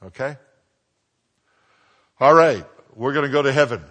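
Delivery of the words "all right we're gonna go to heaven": rousing. Real, not acted. Preacher rousing the congregation.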